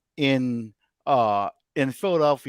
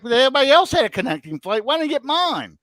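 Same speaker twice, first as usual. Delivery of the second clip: fast, much higher, pitched-up disbelief; exasperated protest; 10 semitones higher, 5 dB louder, faster than usual. Retold or imitated. To the airport worker, exasperated fast high protest. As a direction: fire it back in frustrated disbelief.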